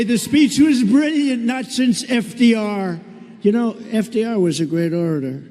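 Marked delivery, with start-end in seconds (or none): 0.0-3.0 mocking quote. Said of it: "And they'll say".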